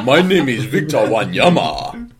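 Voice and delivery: slow, swooping African accent. Shown as a demonstration. Co-host takes his turn as a footballer, African accent. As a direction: introduce yourself slowly in an African accent. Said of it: "African accent".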